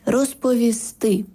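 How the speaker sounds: розповісти said slowly with stress on the final сти; final-syllable stress. Shown as a demonstration. Language expert teaching stresses, last syllable stressed in розповісти. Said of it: "наголос на останній склад".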